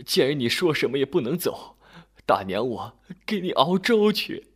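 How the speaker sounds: put-on tearful old woman turning hospitable; kindly old woman. A narrator's reading. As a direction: offer it like a doting auntie. Old woman kindly offers porridge.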